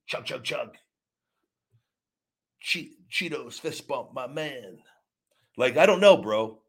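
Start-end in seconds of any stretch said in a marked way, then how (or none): 0.1-4.8 mocking fanboy. Mocking fans in chat forums.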